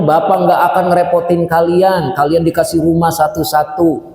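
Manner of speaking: lightly voiced father, sure of himself; confident younger father. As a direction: promise it proudly, no worries. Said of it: "Kalau kemarin ngomongnya".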